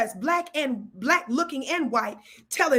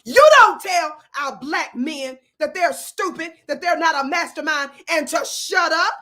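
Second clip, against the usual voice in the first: forceful rebuke; 3 semitones higher, 6 dB louder than usual. Retold or imitated. Retelling her rebuke of Simone.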